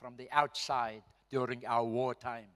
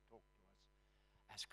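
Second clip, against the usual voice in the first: slow hushed repeat; 6 semitones lower, 22 dB quieter, much slower than usual. Retold or imitated. Repeating the commander's hidden message.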